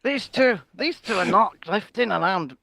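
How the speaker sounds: slow, lightly put-on Scottish accent; casual mock Scottish accent. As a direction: slip into a Scottish lilt without meaning to. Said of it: "I'm in a Scottish accent".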